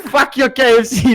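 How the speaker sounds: jokingly angry. Retold or imitated. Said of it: "starts getting, like, jokingly angry".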